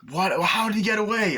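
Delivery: loud, high mock disbelief; retold outraged yell. Cop hearing of the getaway, incredulous mock shout. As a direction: demand it as if stunned, imitating the character. Acting out outraged question in hospital.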